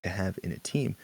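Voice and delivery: smooth soothing announcer read. Shown as a demonstration. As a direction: call it like a fighting game announcer. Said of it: "It's my announcer voice".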